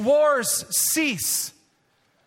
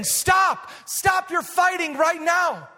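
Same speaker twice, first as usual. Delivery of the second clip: higher, forceful, slow command to stop fighting; commanding call; 5 semitones higher, slower than usual. Retold or imitated. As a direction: call out the command like God ordering the nations. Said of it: "he's saying".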